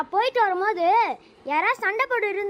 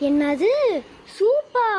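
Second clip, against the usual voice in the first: excited; 3 semitones higher, 4 dB louder, slower than usual. Acted. Excited by her favorite soup.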